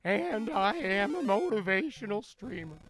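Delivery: loud, booming Matt Foley motivational speaker; Chris Farley impression. Streamer doing Chris Farley's Matt Foley for chat, booming. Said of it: "that's what we're saying is Chris Farley".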